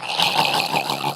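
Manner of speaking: low, drawn-out breathy noise; imitated vegetable noise. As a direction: imitate a vacant, wordless wheeze. Imitates himself as a future vegetable.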